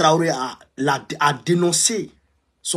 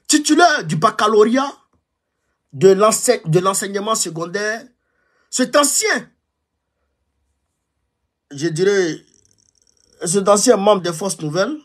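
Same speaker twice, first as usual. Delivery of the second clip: official report reading; 3 semitones higher than usual. Shown as a demonstration. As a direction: read the intelligence report aloud. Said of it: "je vais vous donner lecture du rapport".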